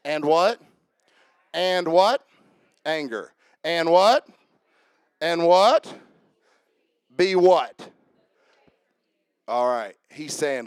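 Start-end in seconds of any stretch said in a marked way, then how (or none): 0.0-7.9 preacher prompting the crowd, louder and rising; calling for response. Shown as a demonstration. Preacher drilling the congregation on the verse, call-and-response. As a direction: call out and wait for the answer. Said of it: "everybody say bitterness".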